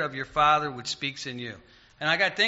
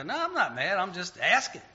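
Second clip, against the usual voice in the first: higher-pitched mock-innocent denial; retold defensive protest; 3 semitones higher than usual. Caller insisting he's just asking, mock-defensive. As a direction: protest your innocence, playing it up lightly. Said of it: "I go".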